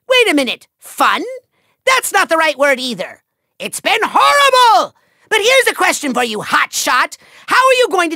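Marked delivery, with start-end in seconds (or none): 3.6-4.9 high, loud theatrical wail; outraged outburst. Acted. Villain taking back that it was fun, outraged. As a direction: burst out in mock outrage.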